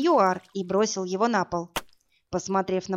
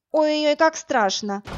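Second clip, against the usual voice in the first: high, louder mock fear; mocking scoff; 7 semitones higher, 4 dB louder than usual. Woman mocking the brute's threat. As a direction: tease him with fake fright. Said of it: "хмыкнула я".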